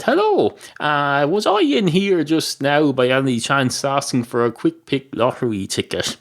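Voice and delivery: dog asking. Acted. Dog returns asking shopkeeper.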